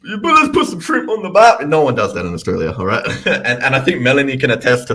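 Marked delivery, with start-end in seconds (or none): 0.0-1.7 hammed-up Australian accent, high and loud; mock Aussie cliché. Aussie host mocking the tourist cliché, hammed-up Australian accent. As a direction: parody the Australian stereotype line. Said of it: "I'm just speaking Aussie".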